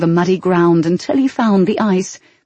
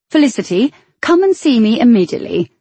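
mock royal summons; 5 semitones higher, 3 dB louder, faster than usual. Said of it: "superior a summons".

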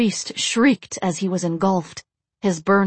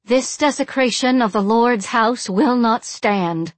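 higher, ringing, solemn declaration; grave pronouncement; 5 semitones higher than usual. A narrator's reading. Blonde with flaming sword condemns the defilers, gravely. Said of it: "the blonde said gravely".

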